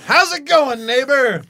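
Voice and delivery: high, sunny hello to the neighbor; over-friendly, as if it's normal; chirpy greeting. Retold or imitated. He greets the startled neighbor, chirpy and high.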